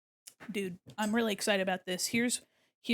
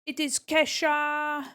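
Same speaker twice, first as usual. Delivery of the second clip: gasping excitement; 5 semitones higher, 5 dB louder, slower than usual. Acted. Excited gasp, announcing the singer.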